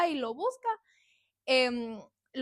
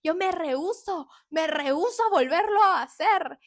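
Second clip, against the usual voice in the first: crying plea; 4 semitones higher, 7 dB louder than usual. Retold or imitated. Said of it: "todo eso llorando".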